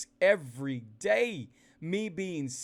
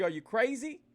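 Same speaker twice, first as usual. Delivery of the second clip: higher, incredulous Are you crazy; mock shock, voice raised in pitch; retold disbelief; 6 semitones higher than usual. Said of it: "I said".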